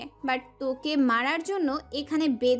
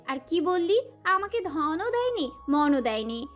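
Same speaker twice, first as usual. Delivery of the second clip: scornful tirade in a higher character voice; enraged; 3 semitones higher than usual. A narrator's reading. Prohelika rages at her captive about what love means, furious and scornful. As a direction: lash out with contempt, pitch swinging up. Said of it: "প্রহেলিকা প্রচণ্ড মাত্রায় ক্ষেপল".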